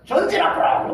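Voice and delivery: high, loud battle command; commanding officer yelling forward; commander's order. Retold or imitated. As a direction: shout the order to advance. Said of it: "충성하자는".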